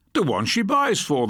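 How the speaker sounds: a talkative shopkeeper answering eagerly; chatty shopkeeper. Acted. Shopkeeper quoted in dialogue.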